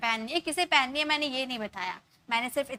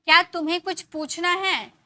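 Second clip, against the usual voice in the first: higher and louder, stress on क्या; emphatic question; 5 semitones higher, 6 dB louder than usual. Shown as a demonstration. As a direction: push the question क्या out firmly. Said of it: "तो हम ये sentences को ऐसे बोल सकते हैं". ("क्या" पर ज़ोर, ऊँची और तेज़ आवाज़)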